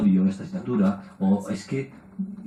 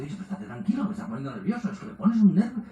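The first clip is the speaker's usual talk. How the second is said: higher, laughing mock plea to calm down; exasperated friends; 8 semitones higher than usual. Friends telling a nervous person to calm down, higher, laughing. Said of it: "la gente dice".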